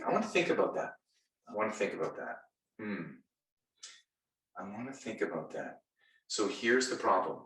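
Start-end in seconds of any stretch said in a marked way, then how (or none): 0.0-0.9 customer stalling. Retold or imitated. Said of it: "You may hear this". 1.5-5.8 quiet, drawn-back "I wanna think about that"; hesitant customer stalling. Retold or imitated. Customer backing out of a sale, softly hesitant. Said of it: "You may hear this".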